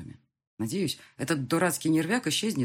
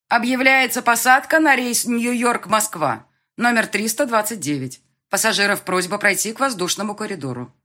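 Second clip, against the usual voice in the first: airport announcement; 8 semitones higher, 10 dB louder than usual. A narrator's reading. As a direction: announce it over the terminal speakers. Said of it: "Металлический женский голос разнёсся по всему аэропорту".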